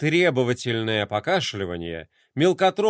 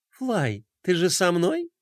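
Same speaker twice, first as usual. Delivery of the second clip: sweet cutesy voice; 3 semitones higher, slower than usual. Acted. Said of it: "самым милым голосом".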